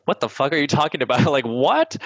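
mock disbelief, rattled off high with a laugh; imitating baffled relatives. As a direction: play the flabbergasted family. Imitating family's reaction to career wish.

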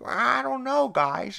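high, loud reluctant teen impression; Chris. Chris hesitating at the vodka, high mock-reluctant voice. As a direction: waver loudly in a high put-on voice. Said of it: "Chris is like".

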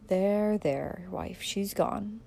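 quiet, slow attempt to console; hushed, awkward comfort; clumsy soothing. A narrator's reading. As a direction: try awkwardly to soothe a grieving wife. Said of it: "clumsily trying to sm-, smooth the mother's anguish".

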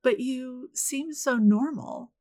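slow, exaggerated Southern belle accent; Scarlett O'Hara drawl. Mocking the guests' remark as a Southern belle, slow. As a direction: put on a syrupy Southern belle voice, slowly. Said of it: "went full Scarlett O'Hara".

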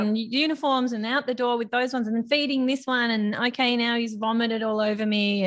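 harried mum juggling one task after another; hectic running commentary. Retold or imitated. Mum getting kids out the door, hectic.

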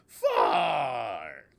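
shouted from across the room; Grover far. Retold or imitated. Grover teaching near and far, shouting far away. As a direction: yell it from far off. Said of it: "He would go across the room".

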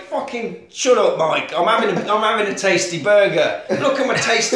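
comic exasperated outburst; acted irritation. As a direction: brush the caller off, half laughing. The speaker brushing off Mike over burger.

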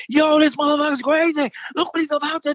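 put-on high, loud kid's yell; excited screaming. Kid on the roof screaming to the others, high and loud. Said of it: "He starts screaming".

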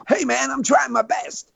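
mock the hapless shooter, slow and high; whiny Nicolas Cage. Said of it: "And he goes, uh, he goes".

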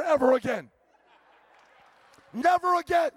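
loud, rising preacher's prayer; loud pulpit prayer, half mocking; fervent prayer. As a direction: pray it out with full force.

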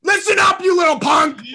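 shouted tough-guy taunt; hammed-up angry shout; mock threat. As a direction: bark it like a schoolyard bully.

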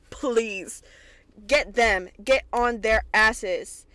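loud, slow egging on; cheering on. Real, not acted. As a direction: urge her on. Cheering a character on.

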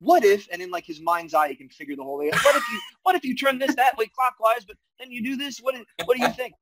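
mock scheming hero. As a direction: ham up the clever hero thinking aloud. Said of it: "It's like, it's like".

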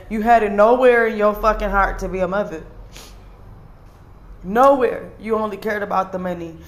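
raw, real anger breaking through; emotional anger. Real, not acted. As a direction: spit the words at the foster mother who never cared. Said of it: "forgive me if I'm a bit emotional".

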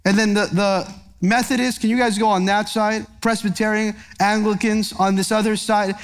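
lightly voiced Lord, quick and casual; a hint of a host seating guests by church; mock Lord sorting people. Preacher jokingly voicing the Lord sorting denominations, light mock voice. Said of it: "the Lord's not gonna say".

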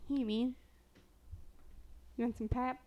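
attempted Chicago accent with flattened vowels. Offering a man pop, Chicago accent. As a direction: put on a Chicago local. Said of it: "How would they say it in Chicago?".

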